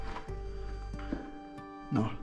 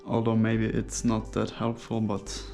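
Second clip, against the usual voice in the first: muffled behind a face mask; through a face mask. Real, not acted. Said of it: "I have a mask on my face".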